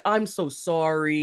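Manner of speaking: drawn-out, slow mock apology; imitated apology. Host mimicking his apology to the others, drawn-out mock-sorry. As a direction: stretch it out in an imitation of him. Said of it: "even the way he said".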